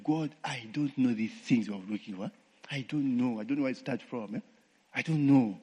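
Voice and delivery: softly voiced plea to God; quiet retold prayer. Retelling his kneeling prayer to God, quiet plea. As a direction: hush it like a private prayer.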